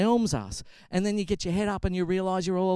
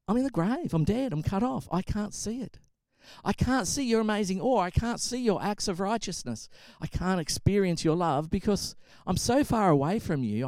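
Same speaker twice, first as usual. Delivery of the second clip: higher-pitched, urgent lament in the psalmist's words; acted desperate plea; 5 semitones higher than usual. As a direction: plead from the grave, pitch lifted. Preacher voices the psalmist's desperate plea.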